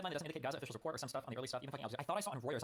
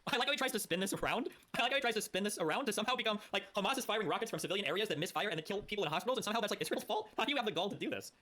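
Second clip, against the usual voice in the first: laughing, then higher and louder in disbelief; incredulous disbelief; 7 semitones higher, 4 dB louder than usual. Real, not acted. Streamer scoffing at a politician's spin, incredulous and louder. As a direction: scoff at the spin, getting more worked up.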